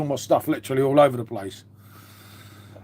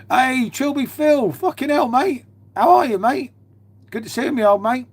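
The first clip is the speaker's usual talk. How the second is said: excited greeting; 8 semitones higher than usual. Real, not acted. Greeting a regular viewer arriving in the live chat, delighted. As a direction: greet him with a delighted high call.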